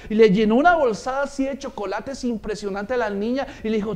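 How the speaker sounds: normal talking voice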